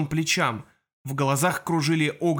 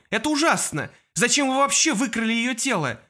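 angry outburst; 8 semitones higher than usual. Acted. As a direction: demand answers in outrage. Aaron accuses the women.

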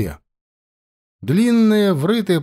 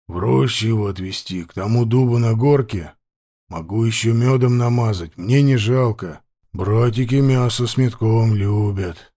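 hoarse chieftain. Acted. Chieftain threatens captive.

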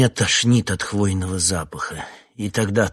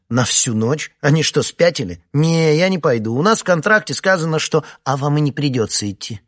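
much higher, louder, speeding up in protest; indignant outburst; 8 semitones higher, 8 dB louder than usual. Acted. Nastya protesting to the coordinator, higher and louder. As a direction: refuse it outright, outraged. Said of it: "изумилась Настя".

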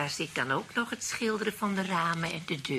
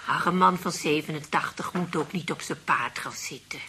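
hushed, whispered aside; whispering gossip between old ladies; conspiratorial whisper; 3 semitones lower than usual. Acted. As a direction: whisper it so he can't hear.

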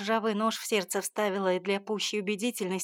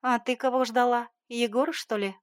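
louder, teasing jab about Egor; mocking mother's taunt; needling mother; 4 semitones higher, 5 dB louder than usual. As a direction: poke at her with a knowing sneer.

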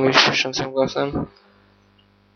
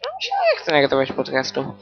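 ordinary delivery

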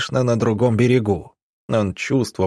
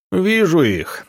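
high-pitched gloating call; angry triumphant cry; 8 semitones higher, slower than usual. A narrator's reading. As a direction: call out like a pursuer spotting his prey. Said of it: "донёсся сзади злой, торжествующий крик". (злобный торжествующий выкрик, повыше)

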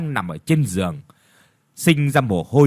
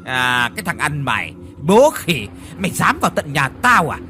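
higher, louder, fast furious tirade; raging old master calling his servants; loud angry shout; 4 semitones higher, faster than usual. Acted. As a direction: scream curses at the beggar. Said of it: "Lão đã lớn tiếng".

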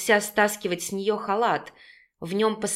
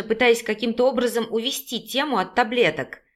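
usual speaking voice

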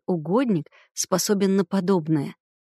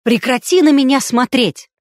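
loud, higher, hysterical outburst; hysterical shout; 5 semitones higher, 7 dB louder than usual. A narrator's reading. Hysterical woman yelling at a man at the table, loud. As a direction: scream it at him, out of control.

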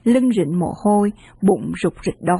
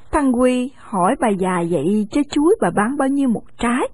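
usual speaking voice

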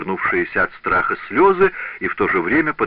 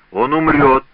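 louder, higher repeat of the sentence; loud threat; 6 semitones higher, 6 dB louder than usual. Acted. Master repeating the death sentence, loud and final. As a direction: slam down the verdict.

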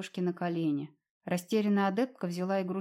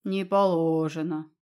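booming; 3 semitones lower, 5 dB louder, slower than usual. A narrator's reading. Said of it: "прогудела сверху".

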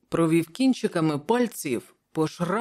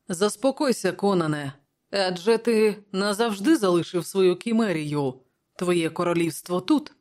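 smiling Prospero; 3 semitones higher than usual. Acted. Prospero calms the king Conan, smiling. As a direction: soothe him with a light smile. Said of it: "усміхаючись, сказав Просперо".

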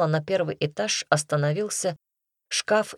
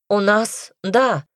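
lightly voiced girl, higher pitch; a raised, higher girlish reply; girl's voice; 5 semitones higher, 5 dB louder, much slower than usual. A narrator's reading. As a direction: answer as a girl calling from behind a wardrobe. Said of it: "раздался из-за шкафа голос девушки".

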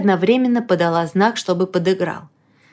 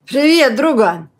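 joyful exclamation; 4 semitones higher, slower than usual. Acted. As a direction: greet your pal with a big cheerful shout. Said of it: "радостно воскликнул он". (радостно, громко воскликнул)

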